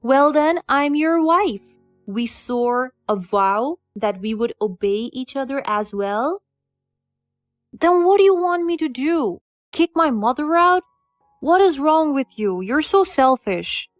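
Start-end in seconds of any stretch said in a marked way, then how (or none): 0.0-5.1 sharp retort. Acted. Wife retorts in argument. 7.7-13.9 louder, higher heated husband; angry outburst. Acted. Husband defending his mother against his wife, angry. Husband shouts back in argument.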